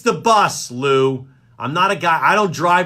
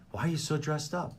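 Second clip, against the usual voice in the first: teasing a colleague's surprised question; imitating Matty; 4 semitones lower, 14 dB quieter, faster than usual. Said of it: "I did not sound like that".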